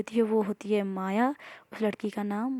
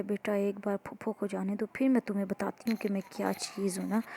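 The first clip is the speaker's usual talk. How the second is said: softer, menacing under the breath; quiet threat; 7 dB quieter than usual. Acted. Maya threatening Amara quietly behind the aunt's back. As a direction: threaten her quietly so the aunt can't hear.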